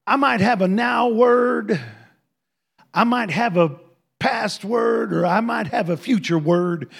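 loud, drawn-out Texas drawl; Dale Gentry. Retold or imitated. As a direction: proclaim it like a booming Texan prophet, drawling. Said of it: "He got a Texas drawl".

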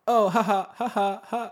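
very loud, high forced ha-has; hammed-up imitation of people laughing; mock laughter. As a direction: act out a big fake laugh. Acts out people laughing at prank.

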